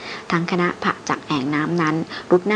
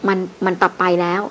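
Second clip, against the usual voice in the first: stammering fright. Acted. Frightened porter stammering an answer to his boss. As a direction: stumble over the words in fear. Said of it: "เสียงของแกติดอ่างกุกกัก".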